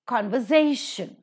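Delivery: Conversation accented on SA; stress before shun. Shown as a demonstration. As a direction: model conver-SA-tion, punching the third syllable. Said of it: "the is given the stress".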